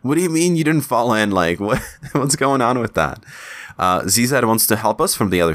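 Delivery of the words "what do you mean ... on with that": mock-angry Gilgamesh. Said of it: "So he's just really mad".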